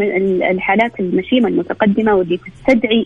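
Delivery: choppy, breaking-up call audio; glitching audio. Real, not acted. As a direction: voice cutting out on a bad phone line. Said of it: "صوتك يقطع يا دكتور فعلًا".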